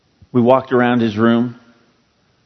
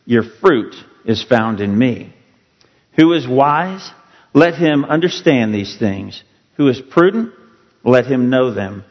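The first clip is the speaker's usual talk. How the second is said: measured, solemn reading of the verses; formal Bible reading; scripture reading. Acted. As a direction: read the prophet's words to the congregation. Reads scripture aloud.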